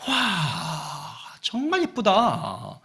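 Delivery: slow, drawn-out wonder; amazed admiration. Acted. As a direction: gasp in acted awe at the swans. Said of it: "놀라는 거예요".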